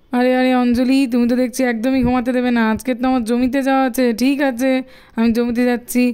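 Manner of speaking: a lazy husband who just wants to sleep; sleepy father. Acted. Father gives in, heads to field.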